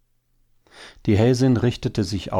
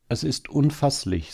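high-pitched, contained dismay; disbelieving; 8 semitones higher than usual. A narrator's reading. Hare wife on hearing about the hunters, disbelieving. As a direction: marvel in appalled disbelief.

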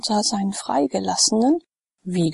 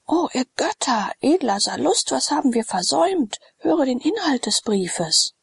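higher, startled, a touch of alarm; shocked exclamation; 6 semitones higher than usual. Acted. The freedman, alarmed by the letter, calling to Sallust in shock. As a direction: cry out at what the letter says.

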